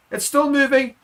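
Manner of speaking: urging the maul forward; rising excitement. Real, not acted. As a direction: commentator climbing toward the try. Maul drives toward the try line.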